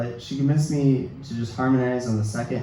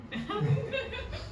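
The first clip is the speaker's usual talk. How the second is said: high breathy laugh; 9 dB quieter than usual. Real, not acted. Laughs at student's question.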